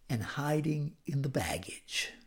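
hushed, breathless mock whisper. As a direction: drop to a secretive whisper as Saul hides. Preacher mocks Saul hiding.

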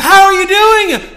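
loud, high, slow overjoyed question; excited greeting. Retold or imitated. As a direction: greet him with big delight. Friend's excited greeting retold.

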